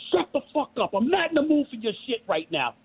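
high-pitched mock yell of an angry cop; retold scream. Cop screaming at him during the traffic stop, mock yell. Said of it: "Literally screamed at me".

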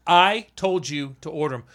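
firm, deliberate "I told you"; emphatic rebuke. Retold or imitated. Contractor to electricians who failed to order, emphatic rebuke. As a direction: lean on "I" as a retold reprimand.

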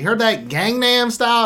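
lightly voiced Texan drawl; Texan accent. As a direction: imitate a Texan asking about the song. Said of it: "perfect for that Texan accent".

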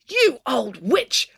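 high, drawn-out insult; angry yell. A narrator's reading. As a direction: yell it slowly with each word stretched, not full volume. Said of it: "April yelled at the mayor".

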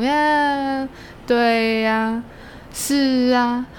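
lightly imitating a lazy drawl; a hint of lazy, drawn-out speech; lazy slow drawl. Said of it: "我觉得你说话有一点懒懒的那种".

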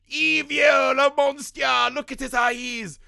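high, loud, hammed-up doom-sayer; theatrical prophet of doom; mock Loomis warning. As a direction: overplay the doctor's ominous warning. Loomis impression, ominous warning.

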